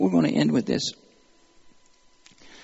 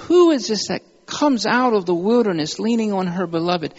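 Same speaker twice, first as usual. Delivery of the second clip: awe; 4 semitones higher than usual. Retold or imitated. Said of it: "you can hear the awe in her voice".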